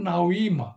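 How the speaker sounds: নাউইমা slow, every syllable sounded; original root form. Shown as a demonstration. Teacher slowly sounds out the root নাউইমা. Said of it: "নাউইমার উচ্চারণটা হচ্ছে নামা".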